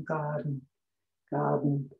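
"garden" said as "gadn"; silent r in garden. Shown as a demonstration. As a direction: drop the R, say "gadn". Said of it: "O R é mudo".

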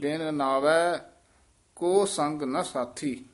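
ਬਿਨ ਨਾਵੈ, catch, ਕੋ ਸੰਗ ਨ ਸਾਥੀ; short stop after ਨਾਵੈ. Shown as a demonstration. Teacher marking a short stop for the student. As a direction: break the line at ਨਾਵੈ. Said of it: "ਨਾਵੈ ਤੇ ਠਮਕ ਲੱਗ ਜਾਏਗੀ".

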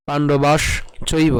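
পাণ্ডবাস, short pause, then চৈব; broken-down pronunciation. Shown as a demonstration. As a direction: separate পাণ্ডবাস ending on sh from চৈব. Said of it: "এটিকে যদি আমি একটু ভেঙে দেই".

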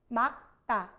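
맑다 said as "mak-tta"; pronunciation demo. Shown as a demonstration. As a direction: drop the ㄹ in 맑다, keep the k. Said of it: "발음 어떻게 해야 돼요?".

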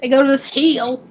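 southern long EE on "heel"; southern accent. Shown as a demonstration. Streamer repeating the cheese story line, southern accent on "heel". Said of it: "that's my southern accent coming out".

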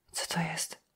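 barely audible, whispered mumble; mumbling. A narrator's reading. Julia watching the man hook up cables, mumbling. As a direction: mumble it under your breath, voiceless. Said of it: "wymamrotała Julia".

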